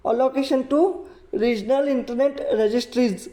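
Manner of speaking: very slow, word by word definition; slow textbook reading. Shown as a demonstration. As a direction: dictate the definition for notes. Teacher reads key phrase.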